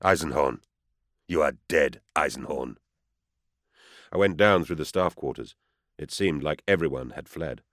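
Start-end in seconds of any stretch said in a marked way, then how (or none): 0.0-2.8 a hint of a cold, stony villain; lightly voiced menacing stranger on the radio; hard like stone. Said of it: "a man's voice, hard like stone".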